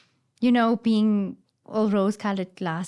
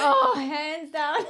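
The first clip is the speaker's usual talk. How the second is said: laughing; much slower than usual. Real, not acted. Laughing at hated liver.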